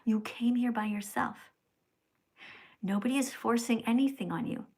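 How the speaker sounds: hushed unvoiced whisper. Real, not acted. Streamer whispering to a viewer in chat. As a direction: breathe it without voice.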